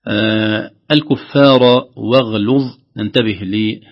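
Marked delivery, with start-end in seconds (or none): 0.9-2.6 slow "الكفار واغلظ" with light ف; careful recitation. Shown as a demonstration. Teacher introduces the next caution, slow careful recitation. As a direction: recite "الكفار واغلظ" loudly, each letter distinct. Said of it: "خوفا من ترقيق الفاء".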